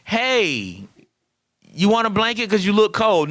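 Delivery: a lightly mocked tender "you look cold?"; gentle offer. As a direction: coo it like you're tucking him in. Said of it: "You can't be like".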